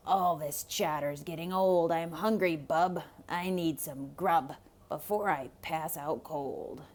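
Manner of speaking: low gruff hungry wolf. Acted.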